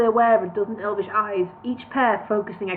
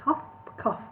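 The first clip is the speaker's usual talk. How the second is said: spoken "cough, cough", soft and breathy; mock cough twice; percussive cough; 4 semitones higher, 7 dB quieter than usual. Gandalf breaking the silence with a cough. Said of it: "a single percussive cough".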